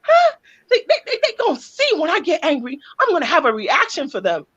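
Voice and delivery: mock indignant rant, fast; imitating a mom's inner threat, hammed-up and fast; mock threatening. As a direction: build a half-joking threat, fast. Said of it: "you in your voice be like".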